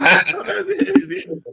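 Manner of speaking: high, slow teasing sing-song; playful sing-song denial. Acted.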